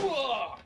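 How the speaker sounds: loud, high fake grunt of being shot; mock death grunt. Gamer faking being shot, loud grunt. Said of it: "me reacting to the gun sound effect".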